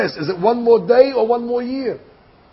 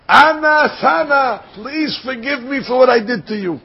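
acted pleading; 3 semitones higher than usual. General begging the emperor's forgiveness, pleading. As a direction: beg for pardon with a stretched opening.

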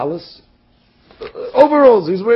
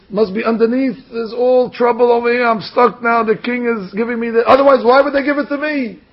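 high-pitched, mounting alarm; agitated fretting; 4 semitones higher than usual. Acted. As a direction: build to an exasperated protest. Groom frets, convinced of a catch.

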